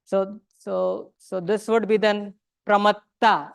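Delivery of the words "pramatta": "pramatta" ending in a long open AA; long final vowel. Shown as a demonstration. Teacher explaining diacritical marks, "pramatta" ending in long AA. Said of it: "It's not pramatta".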